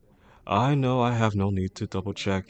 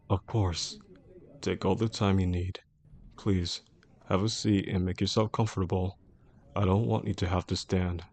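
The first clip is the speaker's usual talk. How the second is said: gentle reassurance. Acted. Boss to bullied employee, it's okay to feel scared, gently reassuring.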